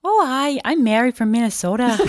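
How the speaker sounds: bright Minnesota lilt, high and quick; cheery Minnesota newcomer accent. Acted. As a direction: play up a Midwestern Minnesota accent. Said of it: "That accent just went".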